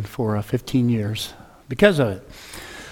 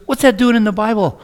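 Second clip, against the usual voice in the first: shocked question; 9 semitones higher, 6 dB louder than usual. Retold or imitated. Young man shocked by verse.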